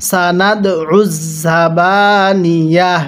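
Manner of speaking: উজ pressed hard with a strong ain, slow; stressed ain. Shown as a demonstration. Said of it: "তাহলে আমার সাথে পড়ুন". (আইনে চাপ দিয়ে উজ)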